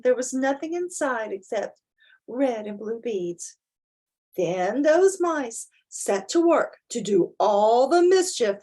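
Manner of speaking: lively storybook narration with big rises; reading to children. A narrator's reading. Parent reading a picture book aloud to children, animated storytelling. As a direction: read it out to your child with wide-eyed emphasis.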